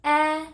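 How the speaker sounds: 'eh' held long on a high level note; short E sound. Shown as a demonstration. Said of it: "One more time".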